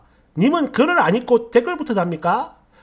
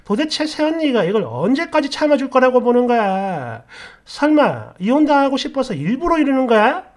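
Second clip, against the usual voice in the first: scolding brother; 3 semitones higher than usual. Retold or imitated. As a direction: tear into the spineless brother. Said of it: "오빠한테도 한마디 했죠".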